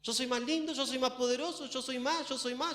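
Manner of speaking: high-pitched mock self-admiration; hammed-up boasting, high and insistent; vain Lucifer at the mirror. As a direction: preen to your reflection in a small high voice. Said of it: "se miraba en el espejo y decía".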